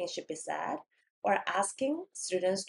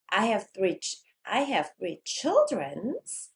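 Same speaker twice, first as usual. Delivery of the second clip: put-on "childrens" hit hard with a rise; emphatic error echo; much slower than usual. Shown as a demonstration. Teacher flags a student's error, stressing "childrens" with rising intonation. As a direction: echo it back, punching "childrens" as a question. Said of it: "뭔가 이렇게 강조를 막 하면서".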